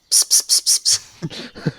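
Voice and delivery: unvoiced psst psst to lure a cat; whispered psst calls. Player's character luring the creature with whispered psst sounds. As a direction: hiss psst psst like calling a pet. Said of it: "he goes".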